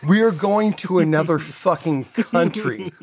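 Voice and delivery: amused incredulous restatement; laughing disbelief. Retold or imitated. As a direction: repeat it as if it's absurd. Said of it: "That was fucking it".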